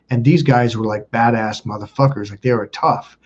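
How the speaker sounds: ordinary delivery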